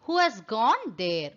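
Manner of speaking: slow, careful model sentence; slow, clear teaching voice. Shown as a demonstration. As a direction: say each word very slowly and clearly. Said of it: "நம்ம கேக்குறோம்".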